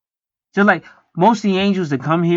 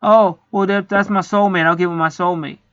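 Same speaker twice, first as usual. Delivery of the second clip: mock lonely gushing; 5 semitones higher than usual. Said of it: "this is what most people do 'cause they're lonely".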